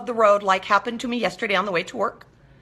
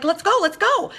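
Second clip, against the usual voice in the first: much higher, bouncing eagerness; eager excitement; 9 semitones higher than usual. Retold or imitated. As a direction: urge everyone to get going, high and keen. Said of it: "That was me".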